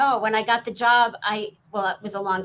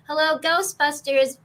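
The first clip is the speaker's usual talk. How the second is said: louder, higher Janine receptionist voice; Janine Melnitz voice; 5 semitones higher, 4 dB louder than usual. Acted. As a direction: answer the phone as Janine. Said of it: "Janine Melnitz".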